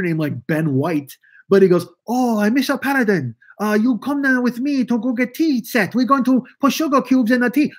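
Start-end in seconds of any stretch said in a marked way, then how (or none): 2.1-7.7 put-on old TV Hey Boy voice. Retelling the radio show's servant character, hammed-up high voice. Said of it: "he talked like that".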